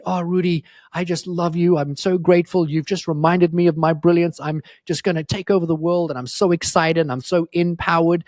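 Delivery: gushing fan message. Retold or imitated. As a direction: read it like a fan spilling over with thanks. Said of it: "that send me a D M and say".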